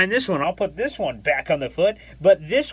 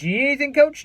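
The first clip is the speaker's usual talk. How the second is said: confident offer; 7 semitones higher, faster than usual. Retold or imitated. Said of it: "I said it with confidence".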